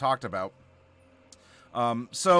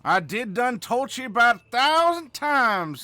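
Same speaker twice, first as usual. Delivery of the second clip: put-on Southern hick accent; 6 semitones higher, 4 dB louder than usual. Streamer lecturing the class in an exaggerated Southern accent. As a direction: play a backwoods Southern schoolteacher. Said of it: "says Klepta".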